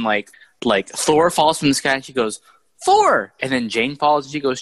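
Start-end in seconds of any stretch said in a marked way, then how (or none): 2.8-3.3 high, loud cry of a name; imitated high-pitched shout; mock calling out. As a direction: yelp it out like the film character. Acted cry as character falls.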